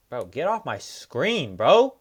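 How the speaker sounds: slow then loud high bro; annoyed yell. Real, not acted. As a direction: shoo him off the screen. Yelling at fighter on screen.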